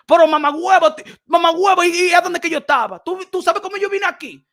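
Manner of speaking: loud, indignant shout in Spanish; immigrant shouting back. Retold or imitated. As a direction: yell it back like a fed-up immigrant. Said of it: "they're gonna tell you in broken English".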